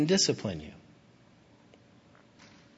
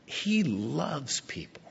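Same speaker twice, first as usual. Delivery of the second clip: slow, breathy whispered He loves people; 6 dB quieter, much slower than usual. Real, not acted. Preacher assuring the congregation of God's love, whispered. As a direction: whisper it slowly like a secret. Tender point in sermon.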